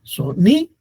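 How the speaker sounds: "sonido" broken up, NI high and punched; so, NI, do, syllable by syllable; stress on middle syllable. Shown as a demonstration. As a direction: hit the NI in "sonido". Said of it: "la sílaba tónica es ni".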